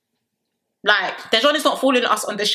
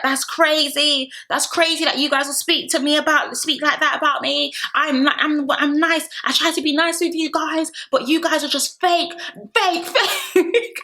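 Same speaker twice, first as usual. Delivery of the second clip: much higher, whiny mock protest; mock Meg rant; 7 semitones higher, slower than usual. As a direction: squeak out the complaint, breaking into laughter. Meg's rant, voiced mockingly.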